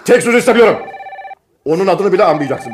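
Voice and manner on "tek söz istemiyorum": firm, louder command; stern order. Acted. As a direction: lay down the law. Father forbids talk of daughter. (sert, yüksek sesle emir)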